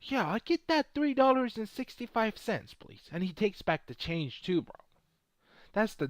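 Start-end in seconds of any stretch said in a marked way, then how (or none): 0.0-3.1 imitating Warren Buffett. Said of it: "He's like".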